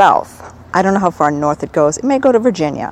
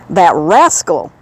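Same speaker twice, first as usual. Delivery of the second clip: put-on Southern accent; 3 dB louder, slower than usual. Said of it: "doing my little accent".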